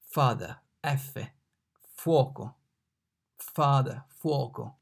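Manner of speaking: father then fuoco side by side; teacher comparing English and Italian; f sound. Shown as a demonstration. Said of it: "F in father".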